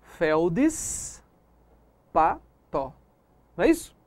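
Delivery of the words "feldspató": "feldspató" very slowly as felds, pa, to, with a long s; "feldspató" in three separated beats; correct three-part split. Shown as a demonstration. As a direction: hold the s of felds in "feldspató", pause, then pa, then to. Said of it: "Se são três vogais".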